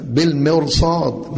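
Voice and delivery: بالمرصاد said slowly, with the راء kept light; careful pronunciation. Shown as a demonstration. Teacher modelling the correct recitation, slowly. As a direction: spell out بالمرصاد without a heavy راء. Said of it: "ما نقولش طبعًا المرصاد مخمر راء".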